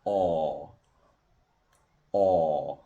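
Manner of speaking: long, low, tightly rounded aw; long vowel aw. Shown as a demonstration. Teacher demonstrating the long vowel, lips tightly rounded. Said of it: "الشفايف ضمت جامد".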